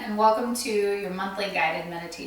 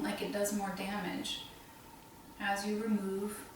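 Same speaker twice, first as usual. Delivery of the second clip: guided meditation. Acted. Meditation leader guiding listeners through breath and heart wounds, guided meditation voice. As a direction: guide them gently, leaving space to breathe.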